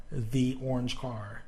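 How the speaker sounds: slow "the orange car", with "the" said thee. Shown as a demonstration. Teacher showing the vowel form, "the" as thee. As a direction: make "the" rhyme with see before "orange". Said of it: "we're not gonna emphasize it".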